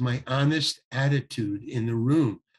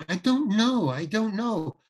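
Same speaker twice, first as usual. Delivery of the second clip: sulky attitude; 6 semitones higher than usual. Retold or imitated. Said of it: "full out with my attitude".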